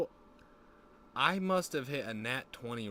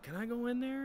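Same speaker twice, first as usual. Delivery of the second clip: high-pitched, innocent request; put-on high voice, asking eagerly; Danny's eager asking; 13 semitones higher than usual. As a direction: imitate an excitable innocent asking permission. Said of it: "he's like".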